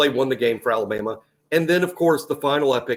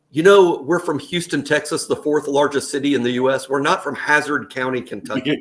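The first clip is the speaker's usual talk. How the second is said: higher, much louder indignant start; huffy Texan protest; mock offended Houstonian; 3 semitones higher, 3 dB louder than usual. Houston fans objecting to the hick image, mock indignant. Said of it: "They're probably like".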